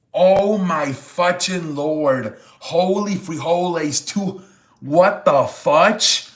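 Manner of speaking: slow, stretched-out amazement; overwhelmed disbelief. Real, not acted. Streamer thanking a viewer for a big gift, slow amazed disbelief. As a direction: let the shock sink in word by word.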